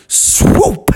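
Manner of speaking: high, drawn-out swoop; swooping sound word. A narrator's reading. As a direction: make the word dive like a bird. Narrator imitates the owl's dive.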